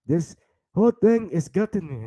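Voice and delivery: lightly put-on African accent. Host grumbling in character, African accent. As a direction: complain in a mock African accent. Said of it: "It's my African accent".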